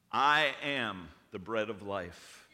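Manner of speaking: slow, loud mock-grand declaration; solemn proclamation. Dinner guest stands up to address the family, mock-solemn proclamation. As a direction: announce it weightily, drawn out and low. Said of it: "Brad stands up and says".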